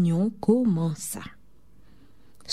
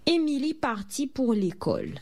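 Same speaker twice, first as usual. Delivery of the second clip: plain reading voice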